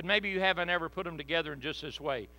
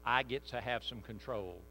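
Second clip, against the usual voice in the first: imagined inner voice; 5 semitones lower, 5 dB quieter than usual. Retold or imitated. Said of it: "Because you're saying".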